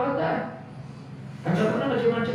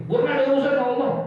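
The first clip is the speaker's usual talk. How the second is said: angry retort; 3 semitones higher, much faster than usual. Retold or imitated. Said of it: "jangan pakai ngomong gitu".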